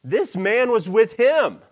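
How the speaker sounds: put-on servant girl accusing. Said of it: "and said".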